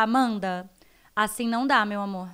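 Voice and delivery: mother firmly correcting a dreamy daughter; firm and kind. Shown as a demonstration. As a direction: set a limit, keep it kind. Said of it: "eu preciso ser um pouco mais firme".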